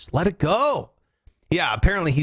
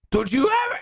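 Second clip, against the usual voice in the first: mock yelling parent; 8 semitones higher than usual. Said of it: "parents would yell at you".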